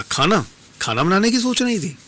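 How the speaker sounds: "खाना?" jumps up high in surprise; surprised. A narrator's reading. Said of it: "अतिथि ने आश्चर्य से कहा".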